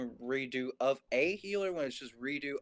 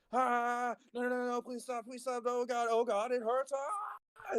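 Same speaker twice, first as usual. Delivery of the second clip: mock very high, drawn-out, pained, agonized screaming; 10 semitones higher than usual. Retelling an anime scene where a character is ripped apart: imitating agonized screaming and begging. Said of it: "going on begging while getting screamed".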